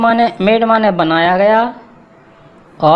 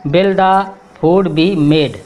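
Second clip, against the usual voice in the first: slow spoken English; much slower than usual. Shown as a demonstration. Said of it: "इसका उच्चारण है".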